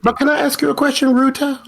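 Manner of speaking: high, quick question; eager Saul. Acted. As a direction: butt in brightly.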